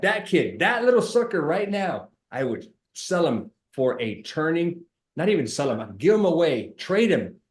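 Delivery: hammed-up fed-up dad, pitch climbing; joking mock fury at a cheeky kid; mock exasperated rant. Retold exasperated rant about kid.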